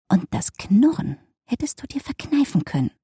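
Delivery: half-whispered murmur. A narrator's reading. Emily mildly scolds her wolfdog for growling, murmuring. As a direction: murmur it under your breath, partly voiceless. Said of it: "murmelte sie".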